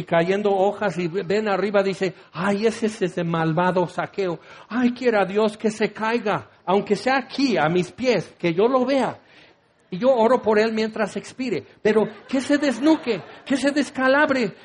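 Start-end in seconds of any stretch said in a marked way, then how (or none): 2.3-11.6 building higher, with a laugh, into gleeful spite; hammed-up pious woman wishing him a fall; mock venom rising in pitch toward the insults; spiteful curse. Bystander cursing Zaqueo. 11.8-14.5 higher, laughing, relishing each wish; a hammed-up, laughing wish for his fall; gleeful curse. Same curse, now gleeful.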